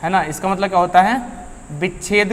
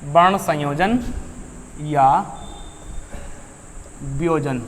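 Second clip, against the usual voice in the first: each word set apart by long pauses for students to write; slow dictation; 3 semitones lower, 7 dB quieter, slower than usual. Shown as a demonstration. Teacher dictating a heading to students, slow and spaced. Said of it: "आप heading डाल लेंगे".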